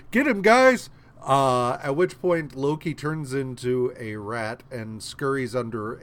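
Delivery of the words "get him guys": high, loud mock battle cry; shouted order. Gods rallying to attack Loki, shouting. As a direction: yell it to the troops.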